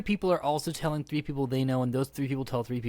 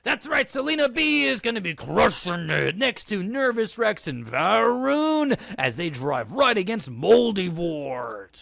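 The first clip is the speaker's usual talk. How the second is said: monster truck ad; 4 semitones higher than usual. Acted. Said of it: "reading this as a monster truck advertisement".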